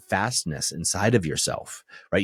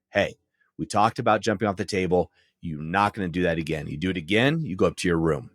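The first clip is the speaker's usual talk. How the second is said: stern dad voice; 2 semitones lower than usual. Shown as a demonstration. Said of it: "That's the tone of voice I would do".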